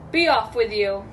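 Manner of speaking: low troll send-off; a hint of grudging troll; dismissive troll. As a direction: dismiss them in a lightly voiced troll.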